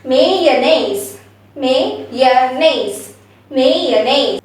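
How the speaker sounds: Mayonnaise as may-yuh-nays; Mayonnaise ending in nays; correct mayonnaise. Shown as a demonstration. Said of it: "we have to say it as mayonnaise".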